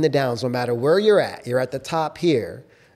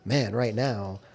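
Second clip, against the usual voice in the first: softer, slightly lowered admission; mildly downcast; 3 semitones lower, 5 dB quieter than usual. Acted. Admitting a low point to oneself, mildly downcast. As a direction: let the energy sag a little.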